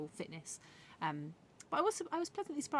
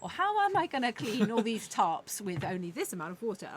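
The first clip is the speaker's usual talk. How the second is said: inner problem-solving voice; 5 dB louder than usual. Retold or imitated. Her brain figuring out a lift at work, puzzled. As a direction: voice your busy brain working it out. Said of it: "your brain going".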